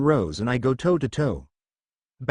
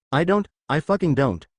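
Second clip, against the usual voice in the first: growling; 3 semitones higher than usual. Acted. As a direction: growl it out drunkenly. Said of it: "Rose growls and babbles".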